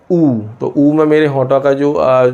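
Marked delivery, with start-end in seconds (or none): 0.1-0.4 ऊ said alone with lips rounded; rounded vowel demo. Shown as a demonstration. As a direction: sound out a long, rounded ऊ. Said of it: "जैसे मैं बोल रहा हूँ". (गोल होंठों से ऊ)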